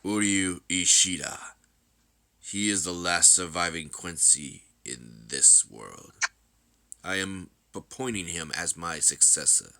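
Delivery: measured, stately announcement; grave, deliberate emperor; solemn ruler. Acted. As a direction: address the troops as their ruler, unhurried.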